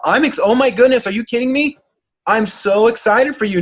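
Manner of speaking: high, bubbly gushing over a client; cheerleader excitement. Retold or imitated. Coach gushing to a client about her weight loss, high and excited. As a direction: squeal it like an overjoyed cheerleader. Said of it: "Leslie's cheerleader personality".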